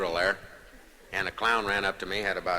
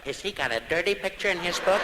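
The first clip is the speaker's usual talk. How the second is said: nosy onlooker voice; 10 semitones higher than usual. Acted. Imagined audience member.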